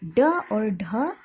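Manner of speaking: ड और ढ said very slowly, each letter apart; ड and ढ said slowly and separately; slow letter demo. Shown as a demonstration. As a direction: spell out ड और ढ slowly for the class. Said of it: "ये दोनों ड़ और ढ भी".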